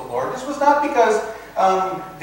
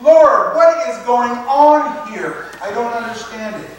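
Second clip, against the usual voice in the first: calling out to God; 3 semitones higher, 3 dB louder than usual. Retold or imitated. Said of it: "call to God and say".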